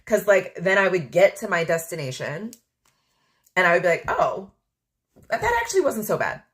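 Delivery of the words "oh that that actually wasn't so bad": high, quick, surprised relief; imitating herself relieved on arrival; mock relief. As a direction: realise it was fine all along.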